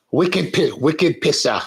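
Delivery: playful attempt at a New England accent; put-on New England accent. Host imitating a New England friend's wicked accent, playful accent. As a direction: try on New England, breaking into a laugh. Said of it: "the accents are good".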